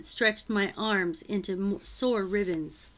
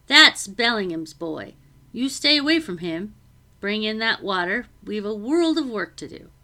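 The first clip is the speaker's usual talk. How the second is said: a busy cook, startled and fussing; flustered housekeeper; 6 dB louder than usual. Acted. Becky warns and orders.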